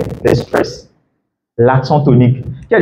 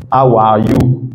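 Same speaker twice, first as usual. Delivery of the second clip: HOW ARE YOU with every syllable even; no rise or fall on HOW ARE YOU; monotone; 3 semitones lower, much slower than usual. Retold or imitated. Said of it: "tu prononces en fait toutes les syllabes de la même manière". (HOW ARE YOU monotone, syllabes toutes égales)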